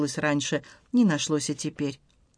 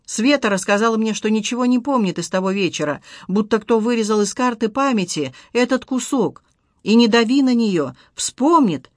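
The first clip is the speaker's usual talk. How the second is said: a lightly raised, pleading mother; a hint of a worried mother giving advice; mother's voice; 4 semitones higher, 4 dB louder than usual. Mother advises her son, gently insistent.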